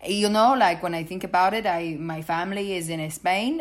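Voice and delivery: imitated Spanish-tinged English; mock Spanish accent. Mimicking a forty-something claiming Spanish family, mock Spanish accent. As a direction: put on a light Spanish accent. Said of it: "a Spanish accent".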